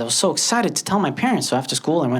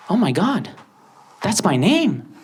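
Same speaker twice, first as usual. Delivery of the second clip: giddy shout of discovering your own name on TV; excited shout; 8 semitones higher than usual. Retold or imitated. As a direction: blurt it out like you just got famous. Thrilled to see name on TV.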